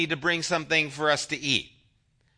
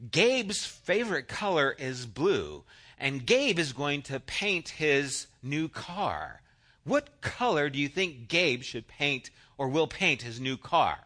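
slow quiz reading; 3 semitones lower, 4 dB quieter than usual. Shown as a demonstration. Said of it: "they would say something in the sentences like".

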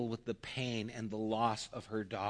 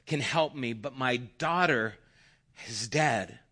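mildly desperate plea, a little raised; begging; 3 semitones higher, 5 dB louder than usual. Acted. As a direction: plead earnestly as a grieving mother. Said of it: "she just begs him".

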